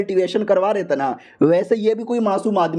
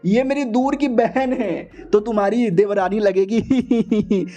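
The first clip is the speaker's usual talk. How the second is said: mock introduction; 2 semitones higher, slower than usual. Hero introducing the witch to his wife, slow and sly. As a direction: ease it out, playing innocent.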